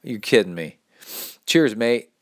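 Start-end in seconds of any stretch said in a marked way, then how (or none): 1.5-2.1 mock Aussie "Cheers, mate!"; light Australian cheer; a touch of Aussie accent; cheery Australian. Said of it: "Exclamation point".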